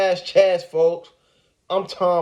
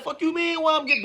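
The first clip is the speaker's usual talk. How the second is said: imitating the Milwaukee guy; 10 semitones higher, 4 dB quieter, faster than usual. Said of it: "folks ass get that".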